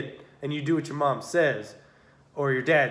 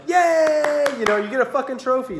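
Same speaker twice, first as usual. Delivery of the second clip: high squealing mock yay, much higher and louder; mock cheering; 10 semitones higher, 6 dB louder than usual. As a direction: gush like a doting parent. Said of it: "and you're like".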